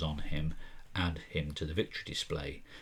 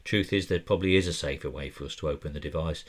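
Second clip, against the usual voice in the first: Nathan voiced in a vague put-on accent, a bit louder; 5 dB louder than usual. Game master voicing Nathan to the investigators in a loose accent. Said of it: "I don't know why I'm doing this accent".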